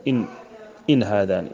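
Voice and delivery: إن said "in" with a single closed n; unvowelled noon. Shown as a demonstration. Teacher showing a Quranic reading, single vowelless n in إن. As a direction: stop إن on a plain n before هذان. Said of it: "يقرآنها بسكون النون".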